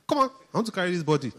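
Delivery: high, hurried mock pleading; mock impatient protest. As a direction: play an exasperated angel, lightly hammed-up. Acting out Michael arguing over body.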